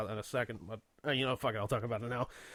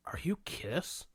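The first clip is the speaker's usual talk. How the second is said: whispered question; 2 semitones higher, 5 dB quieter, slower than usual. Retold or imitated. Passerby question retold.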